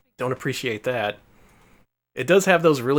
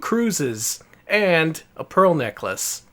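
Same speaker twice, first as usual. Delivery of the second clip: booming prize announcer; 4 semitones higher, 4 dB louder, much slower than usual. Pretend. Mock host prize announcement.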